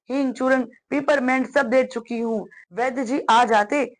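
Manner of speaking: mildly anxious, fussing mother's part; worried mother. Acted. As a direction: read it with a touch of motherly worry. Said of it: "उसकी माँ बहुत फिक्र से बोलती है". (हल्की चिंता में डूबी माँ)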